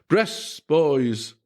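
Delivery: schoolboy mimicking the Irish priest, shouting; mock Irish shout. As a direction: yell it in a put-on Irish accent. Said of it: "mimicking Father Casti's Irish accent, shouted".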